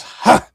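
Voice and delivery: single loud "ha" of a laugh; one short burst of mock laughter; brief, punched-out character laugh; acted laugh. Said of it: "laughs, says".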